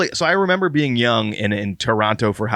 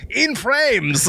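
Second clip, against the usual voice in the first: high mock Asian accent on "In frames"; 11 semitones higher than usual. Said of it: "that's an Asian version of in flames".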